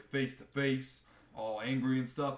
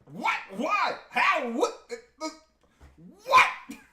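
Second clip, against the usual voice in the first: rising, bewildered, louder questions; confused fans; 13 semitones higher, 9 dB louder, slower than usual. Retold or imitated. Fans reacting to Cody's twist, baffled and sputtering. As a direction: sputter in disbelief, climbing higher. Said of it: "So everyone's like".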